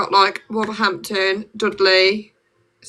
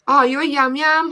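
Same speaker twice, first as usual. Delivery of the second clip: higher-pitched quoting of nosy commenters; imitated live viewers; 6 semitones higher, 4 dB louder than usual. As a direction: mimic viewers teasing about an accent. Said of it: "and everyone's like".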